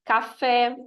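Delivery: "Café" slowly in two beats, CA then FÉ; two separate syllables. Shown as a demonstration. Teacher showing a two-syllable word, Café in two beats. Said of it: "duas sílabas".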